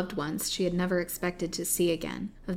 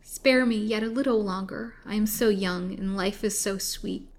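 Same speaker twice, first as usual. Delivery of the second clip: pleading victim; 3 semitones higher than usual. Acted. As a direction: beg your captor for mercy. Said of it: "moaned the poor victim between her chattering teeth".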